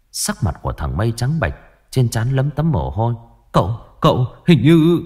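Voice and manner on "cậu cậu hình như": stammering fear. Acted. Servant stammers bad news.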